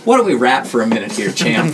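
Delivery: quick, overfriendly patter to a youngster; a hint of the chummy grown-up; chummy adult. Game master's character asking the kid for a chat, chummy adult.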